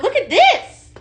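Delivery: giddy high squeal at the product; excited squeal. Real, not acted. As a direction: squeal over the find.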